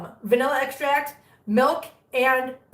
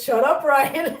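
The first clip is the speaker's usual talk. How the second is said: laughing shut up; 3 semitones higher, 5 dB louder, slower than usual. Real, not acted. Laughing at Brian's joke.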